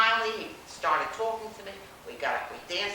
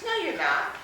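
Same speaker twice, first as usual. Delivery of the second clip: higher, loud flat no; loud refusal; 10 semitones higher, 5 dB louder than usual. Retold or imitated. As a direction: cut her off loudly. Man refuses girl front seat.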